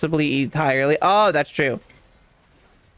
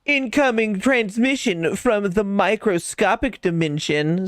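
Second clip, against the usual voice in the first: announcer voice; 4 semitones higher, slower than usual. Retold or imitated. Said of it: "says Pocket".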